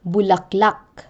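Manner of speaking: Bulaklak with stress on the final -lak; stress on last syllable. Shown as a demonstration. Teacher showing Tagalog end stress, final syllable stressed in Bulaklak. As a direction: land the weight on the end of Bulaklak. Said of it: "end stress laid on the last syllable".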